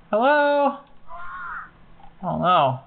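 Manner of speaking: ordinary talk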